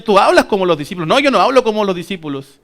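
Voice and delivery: quick, insistent back-and-forth; heated accusation and denial. Acted. Bystanders accuse Peter and he denies it, heated. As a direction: fire off the accusation, then protest it.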